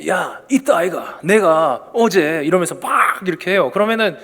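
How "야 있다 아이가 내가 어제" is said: put-on slow, drawn-out Gyeongsang kid starting a tall tale; a Gyeongsang schoolboy spinning a story; schoolboy in Gyeongsang dialect. Kid bragging to classmates, slow Gyeongsang dialect. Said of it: "애가 학교에 와가지고".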